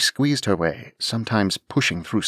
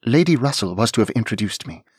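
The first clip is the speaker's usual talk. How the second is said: quick, a bit louder reply; hurried young lady; 3 semitones higher, 5 dB louder, faster than usual. Acted. Anne hurrying to explain to the dragon, quick. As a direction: rush the explanation.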